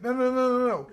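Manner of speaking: high-pitched, rapid string of objections; urgent retold protest. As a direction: imitate someone jumping in to stop a mistake. Athlete cutting in on yelling guard.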